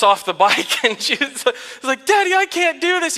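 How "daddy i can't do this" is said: high-pitched imitation of a little girl; mock childish wail of giving up; scared child. Daughter jumping off bike after a bump, imitated upset cry. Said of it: "and it scared her".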